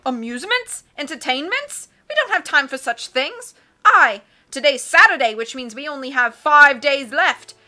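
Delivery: loud, hearty captain voice; blustery sea captain. Acted. Captain puzzling over charts, loud and hearty. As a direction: boom like a cheerful old sea dog.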